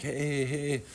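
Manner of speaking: imitating a frantic stranger's calls. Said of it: "like, all frantic".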